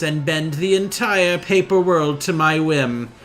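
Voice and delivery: a hint of a slow, gloating king; lightly voiced villain. Villain brother threatens his sister, mildly gloating. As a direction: savour each threat slowly, pleased with yourself.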